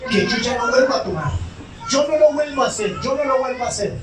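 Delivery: high, whiny pleading promise; hammed-up drunk begging his wife; mock weeping drunkard. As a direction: borracho llorón exagerado. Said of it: "Le llora a la esposa".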